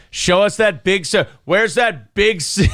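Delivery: giggling through the words; laughing tease. Real, not acted. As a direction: tease while cracking up.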